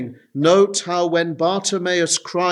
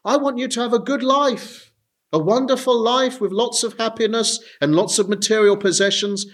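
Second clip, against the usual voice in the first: tempting Satan; 3 semitones higher than usual. Retold or imitated. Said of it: "This is what Satan will say to you".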